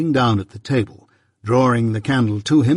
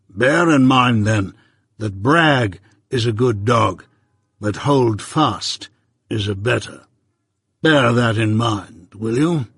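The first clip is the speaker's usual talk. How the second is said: measured, stern lawyer, lightly voiced; Jaggers; slower than usual. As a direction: lay it down slow and firm.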